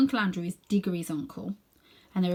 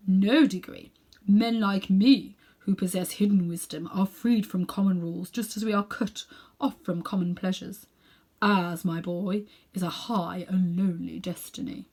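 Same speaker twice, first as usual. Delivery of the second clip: grave and noble; 3 dB louder than usual. Acted. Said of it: "so grave and noble and mysterious".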